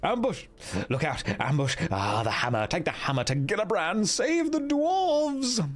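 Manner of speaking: dying dwarf's cries of alarm, building to a long high wail; delirious shout. A narrator's reading. Delirious dwarf warning his friends of an ambush, shouting. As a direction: call out the warning, stretching the last words high and long. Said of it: "he again starts to shout".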